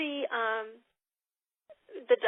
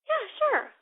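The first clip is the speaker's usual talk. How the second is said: guest voice; 13 semitones higher, 5 dB louder than usual. Retold or imitated. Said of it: "if she says".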